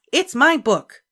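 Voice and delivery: put-on high, loud child's proud claim; announcing. A narrator's reading. Ramona showing her family the book, high and proud. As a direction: announce it like a proud little girl. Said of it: "she announced".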